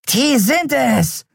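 high, slow, eerie skeleton voice; an uncanny bony creature pointing out its victims; bizarre skeleton voice. A narrator's reading. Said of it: "verkündete seine bizarre Stimme".

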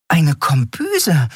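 high, slow astonished echo. Acted. Nelen echoes Keru's word about the galley, high and astonished. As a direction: stretch it out in disbelief. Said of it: "wiederholte Nelen verblüfft".

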